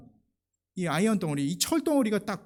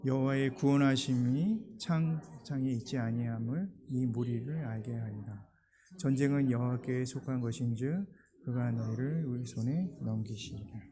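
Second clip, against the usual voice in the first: unison scripture reading; 5 semitones lower, 3 dB quieter than usual. Shown as a demonstration. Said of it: "우리 한 목소리를 한번 읽어볼까요".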